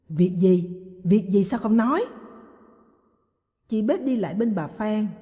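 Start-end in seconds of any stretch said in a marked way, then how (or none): 0.1-2.0 shouting. Acted. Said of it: "Bà Phan hét".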